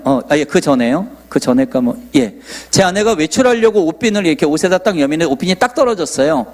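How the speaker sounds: ordinary talk, nothing marked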